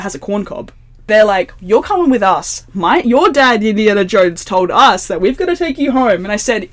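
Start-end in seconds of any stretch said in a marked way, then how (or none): 1.6-6.3 loud commanding order. Retold or imitated. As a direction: order her to come along. Plastic men order her.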